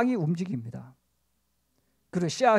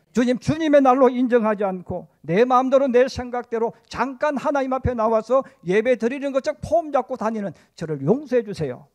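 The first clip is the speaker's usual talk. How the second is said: raised, emphatic mock prayer; pleading confession; 3 semitones higher, 4 dB louder than usual. Preacher models confessing to the Lord, pleading. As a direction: press the plea for forgiveness, then drop at the end.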